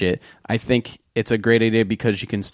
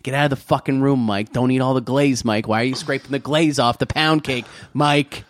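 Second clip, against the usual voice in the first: annoyed dad. Retold or imitated. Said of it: "My father, he always had to have silence".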